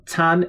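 tan pitched high and held level; a high, flat-toned tan; first tone. Shown as a demonstration. Teacher models first half of restaurant word, tan high and level. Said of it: "C A N in the first tone".

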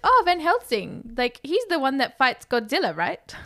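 lightly voiced clueless mum, starting high; a hint of well-meaning mum, dropping at the end; full mum. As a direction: play mum trying to join in. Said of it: "does the full mum thing".

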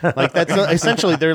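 ordinary delivery

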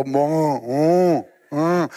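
lazy mock grunts like a cow; mock grunting reply. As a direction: grunt back lazily, half-mocking. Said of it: "Ci rispondiamo tipo". (grugniti svogliati da mucca, per scherzo)

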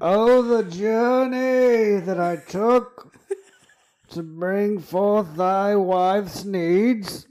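very high, loud, slow lament; dramatic knight wail. Retold or imitated. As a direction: wail it like a tragic hero. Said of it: "this is how he walks into the house".

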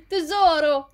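high, hammed-up endearment; mock-effusive hello; gushing greeting imitation. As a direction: call out sweetly and too loudly.

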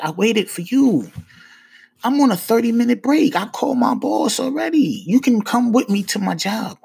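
talking like this. Retold or imitated. Man arguing his innocence to a cop, high and insistent. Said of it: "I'm talking to him like this".

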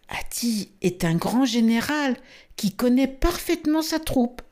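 light, high calf's voice, half whispered; a small elephant confiding; young elephant voice. Acted. Elephant calf answers Mowgli. (petite voix d'éléphanteau, aiguë)

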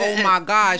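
a touched, bashful laugh in the words; smiling and blushing. Retold or imitated. Retelling own reaction to a sweet moment, smiling and blushing. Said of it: "I'm over here smiling, like, and blushing".

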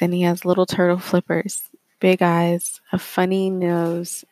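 gentle, unhurried meditation read; guided meditation. Acted. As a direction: read it like a calm relaxation script. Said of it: "I'm going to read a guided relaxation piece".

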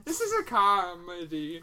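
slow, oddly drawn-out line; odd delivery. Real, not acted. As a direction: say it in a strange put-on way. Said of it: "I don't know why I said it like that".

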